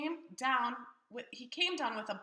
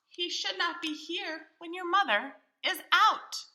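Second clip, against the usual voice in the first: fussy fish; 4 semitones higher, 5 dB louder than usual. Acted. Fish protests against cat.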